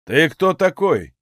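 slow, domineering question; commanding. Acted. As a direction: demand it with authority. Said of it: "властно спросил он".

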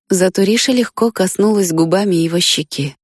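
usual speaking voice

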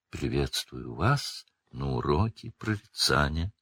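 soft, low, otherworldly seer; mystical seer. A narrator's reading. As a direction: speak as a dreamy mystic. Narrator voices Trelawney.

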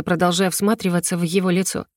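ordinary delivery, nothing marked

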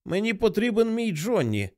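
тонкий жалібний голос хворої матері; проси сина жалібно і високо; жалісно. A narrator's reading. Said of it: "жалісно промовила вона". (жалібно, високим голосом)

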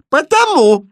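very high, loud, lofty retort; haughty. Acted. Princess answers the prince haughtily, loud and lofty. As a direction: look down on him. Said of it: "высокомерно ответила принцесса".

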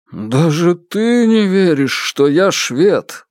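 slow, dejected complaint; glum. Acted. Murray lamenting to the mother that nobody believes him, slow and glum. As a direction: drag it out, utterly downcast. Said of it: "уныло произнёс Мюррей".

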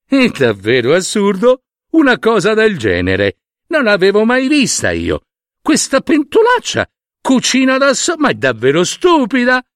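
high, rising scornful shriek; spoiled girl shrieking at a pot; shrill shriek. Acted. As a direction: shriek it out, disgusted and amazed. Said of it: "e strillò".

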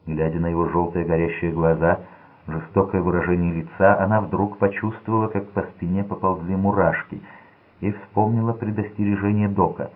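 ordinary delivery, nothing marked

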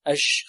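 أج with a soft, flowing jim, the sound not stopped; wrong soft jim. Shown as a demonstration. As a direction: demo of the mistake: أج made rakhwa. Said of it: "أج، خطأ". (جيم رخوة خاطئة في أج)

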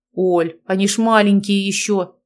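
mildly indignant, level-pitched protest. A narrator's reading. Father objects to marrying off younger daughters, indignant. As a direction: object on the little ones' behalf. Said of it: "возмутился Гарин".

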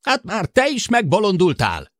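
high, loud exasperated cry; indignant shout. A narrator's reading. Sid shouting in disbelief that Jill went mad too. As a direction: throw up your hands in outrage. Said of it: "Sid felháborodását".

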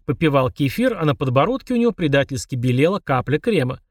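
ordinary delivery, nothing marked

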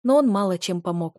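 ordinary delivery

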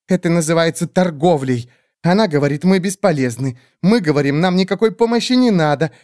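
fawning creature. Acted. Skeletal bird creatures grovelling before the great witch, high squeaky.

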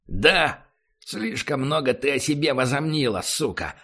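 furious snarl at the prisoner; angry. Acted. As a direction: spit it out in rage. Barry kicks and curses prisoner.

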